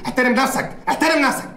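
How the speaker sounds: sharp, rising scold; stern rebuke. Acted. Company owner scolding a rude guest, sharply. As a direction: put him firmly in his place.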